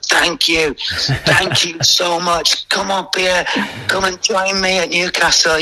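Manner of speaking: high, slow, overjoyed thank you; gushing Keegan. Retold or imitated. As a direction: gush with thanks, then pitch up to invite him. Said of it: "honestly, he was like".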